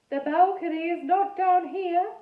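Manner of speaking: put-on high, slow ghost boy with a French-ish accent; funny French-ish accent. A narrator's reading. Ghost boy Edmund speaking.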